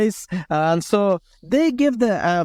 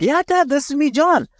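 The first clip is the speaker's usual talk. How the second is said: higher-pitched eager reassurance on the phone; imitated son identifying himself, pitched up; retold insistence; 8 semitones higher than usual. Son insists who is calling.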